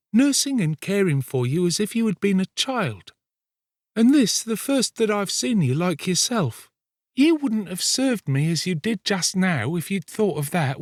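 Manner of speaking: put-on high girl's voice, sweetly pleading; tender. A narrator's reading. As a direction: coax him with a touch of tenderness, pitched high. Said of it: "sweetness of tone even to her voice".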